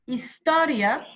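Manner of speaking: slow, stretched list words; slow dictation of the list. Shown as a demonstration. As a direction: draw each word out slowly.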